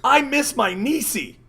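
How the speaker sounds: slow, high mock wail; hammed-up high-pitched whine; high-pitched scream. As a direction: imitate him wailing way up high. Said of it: "in a high-pitched, like, voice".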